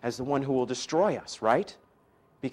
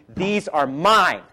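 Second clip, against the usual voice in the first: lion's claim; 4 dB louder than usual. Retold or imitated. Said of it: "He's saying".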